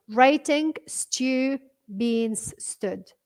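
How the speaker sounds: very slow, evenly spaced words; own way of reading. Shown as a demonstration. Teacher shows viewer how she reads it, word by word. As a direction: read it word by word, leaving gaps between them. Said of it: "بس أنا بقراها هيك".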